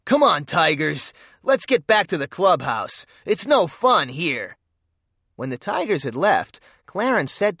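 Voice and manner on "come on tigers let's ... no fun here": mildly raised call to his gang. Acted. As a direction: call the gang away, a bit louder. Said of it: "Suddenly he called".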